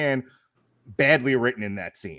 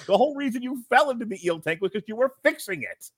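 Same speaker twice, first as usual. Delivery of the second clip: raised, incredulous ranting; exasperated rant; 8 semitones higher than usual. Real, not acted. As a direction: pitch up in disbelief.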